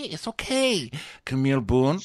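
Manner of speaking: normal talking voice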